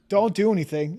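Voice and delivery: said through laughter; half laughing, half begging; laughing plea. Real, not acted. Laughs while telling friend.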